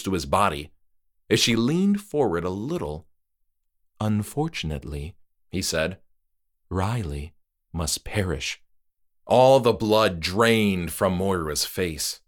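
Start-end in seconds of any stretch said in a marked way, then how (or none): 4.0-8.6 softer, low grave voice; polite death sentence; regretful host. Acted. Trick-or-treater verdict.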